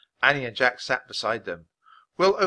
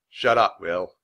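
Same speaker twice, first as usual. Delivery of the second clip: surly mutter, dropping in pitch; 3 semitones lower, 7 dB louder, slower than usual. A narrator's reading. Embarrassed boy silencing Will, muttering. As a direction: mutter it resentfully. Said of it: "he muttered".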